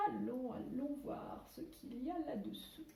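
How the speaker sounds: soft, secretive look underneath, a laugh in it; hushed peek. Pretend. Peeking under cover, suspense. (voix feutrée et amusée)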